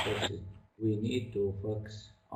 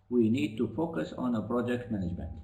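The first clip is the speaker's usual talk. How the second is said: louder repeat; 3 semitones higher than usual. Real, not acted. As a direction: clear and louder, slowed down. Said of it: "in a loud voice, please".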